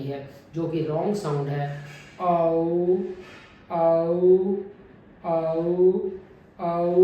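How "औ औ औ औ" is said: औ with relaxed, unrounded lips at the start; diphthong demo. Shown as a demonstration. Teacher models the right way to start औ. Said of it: "पहले जो ए sound है उसमें lip rounding नहीं".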